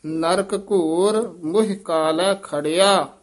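phrase recited through to a rest on ਖੜਿਆ; pause after ਖੜਿਆ. Shown as a demonstration. Teacher marking for students the rest after ਖੜਿਆ. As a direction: carry on through ਕਾਲੈ, stop after ਖੜਿਆ. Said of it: "ਇੱਥੇ ਵਿਸਰਾਮ".

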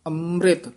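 ਅੰਮ੍ਰਿਤ then a clear pause; pause after ਅੰਮ੍ਰਿਤ. Shown as a demonstration. Teacher showing where to pause in the verse. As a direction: stop after ਅੰਮ੍ਰਿਤ before going on. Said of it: "ਇੱਥੇ ਵਿਸਰਾਮ ਲਾਉਣਾ ਹੈ".

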